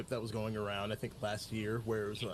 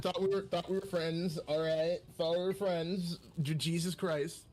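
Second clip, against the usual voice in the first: raised-pitch, indignant protest; mock hurt; 4 semitones higher than usual. Let-down player to gatekeeping friend, mock hurt. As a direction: play the let-down friend, exasperated.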